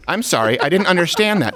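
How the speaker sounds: lightly voiced smart speaker; Alexa assistant voice. Smart speaker failing to understand the caller, lightly voiced assistant. Acting Alexa's reply to the question.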